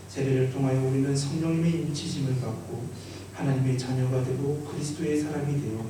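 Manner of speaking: measured, clearly projected ceremonial reading; officiant's formal baptism address; formal liturgical reading. Acted. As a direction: read the rite out solemnly to the congregation.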